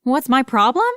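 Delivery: rising curious question. Acted. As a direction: ask with eager curiosity. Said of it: "I asked, curious".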